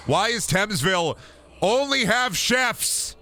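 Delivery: high, drawn-out exasperated yell. Real, not acted. Streamer yells at the game about the chefs, exasperated. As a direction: scream the question in disbelief. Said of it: "I'm yelling, I'm screaming".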